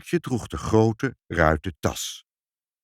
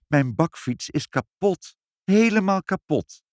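high, mildly plaintive lament; mournful; 10 semitones higher, 3 dB louder than usual. A narrator's reading. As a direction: lament it, pitch climbing. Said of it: "zei meneer Sinkel treurig". (licht treurig, klagend)

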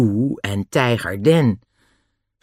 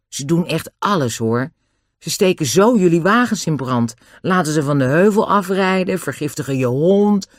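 put-on higher-pitched, urgent boy; worried Nobby; 6 semitones higher than usual. A narrator's reading. Nobby warns Dick about Lou and Den, urgent. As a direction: warn him, voice lifted.

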